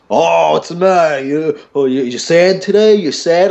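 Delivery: high, babying put-on pity; imitating a needler's singsong pity; taunting mock sympathy. Customer taunts him with fake sympathy.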